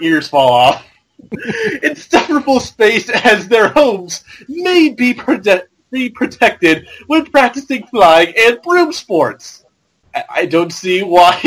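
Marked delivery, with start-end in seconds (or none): 1.8-9.6 goon voice. Acted. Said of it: "I should do the goon voice".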